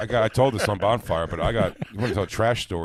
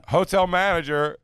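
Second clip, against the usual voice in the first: high, slow, announcing the manager; mock stern hotel manager; 11 semitones higher, 6 dB louder, slower than usual. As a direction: call it out slow and high like a stiff hotel clerk. Mocking the hotel manager's call.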